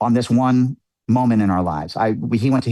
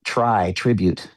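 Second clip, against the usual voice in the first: slow dawning realization; much slower than usual. Retold or imitated. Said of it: "I started thinking".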